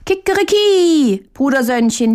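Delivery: high, loud cock-a-doodle-doo; rooster crow. A narrator's reading. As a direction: crow it out at full strength like a rooster. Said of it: "ruft aus Leibeskräften". (lautes Hahnenkrähen)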